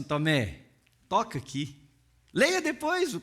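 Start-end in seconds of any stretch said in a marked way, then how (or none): 0.0-1.8 softer, lower tender call; gentle invitation. Retold or imitated. Jesus invites doubting Thomas to touch, soft and tender. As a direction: coax him gently to touch.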